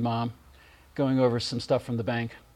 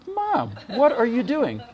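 mock startled cry to mom, pitched up; startled question; 9 semitones higher, 3 dB louder than usual. Son catching his mother hiding a pill, startled. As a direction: catch her in the act, half-laughing.

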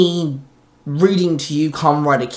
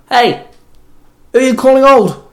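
higher, loud offended outburst; indignant bark; 10 semitones higher, 8 dB louder than usual. A narrator's reading. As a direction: snap back, stung by the insult. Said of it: "Zack barked".

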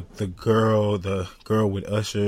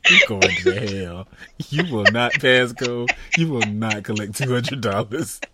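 mock condemnation through suppressed laughter; laughing, playful reprimand; trying not to laugh. Real, not acted. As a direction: scold them while holding back real giggles. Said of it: "I'm really trying not to laugh".

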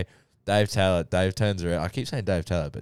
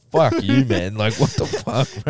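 mock yell; 4 dB louder than usual. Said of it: "I'm like".

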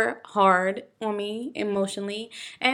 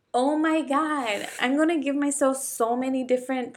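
retold tearful panic; 4 semitones higher than usual. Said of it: "like, hysterically crying".

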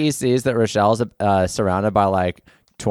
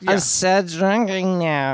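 put-on getting drunker; 9 semitones higher, slower than usual. Voicing drunk Wobbles.

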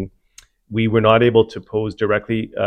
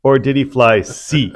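game show host; slower than usual. Acted. Hosts a mock game show.

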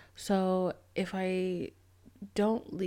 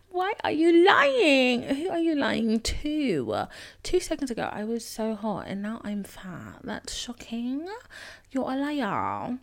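laughing in disbelief, raised and loud; mock outraged laughter; incredulous laughing retort; 5 semitones higher, 6 dB louder, slower than usual. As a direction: scoff and laugh at the liar. Retorting to insulting guy, laughing.

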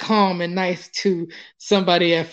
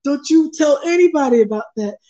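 raised, scolding warning; stern warning; 6 semitones higher than usual. Retold or imitated. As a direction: warn him sternly, pitched up. Voicing Erica's threat.

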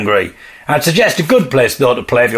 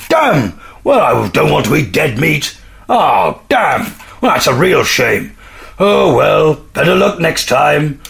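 disappointed bear; 2 semitones higher, slower than usual. Pretend. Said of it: "We're entering the mind of a bear".

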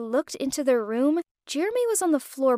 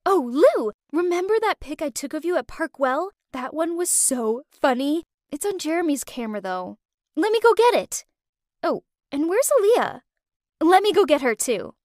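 bubbly, with a jump up on let me go get it; tipsy excitement; 3 semitones higher than usual. Acted. Naomi hurrying off to fetch the photo, bubbly and excited. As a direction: chatter eagerly like an excited drunk friend. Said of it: "she ran off in excitement".

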